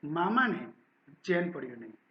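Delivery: steady, clear story narration; story reading. A narrator's reading. Teacher reading a Gujarati story aloud to students, steady narration. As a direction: read the story to the class.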